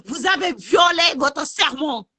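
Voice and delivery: slow, hammered shout. Real, not acted. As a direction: shout each word of the accusation. Accuses doctors of breaking oath.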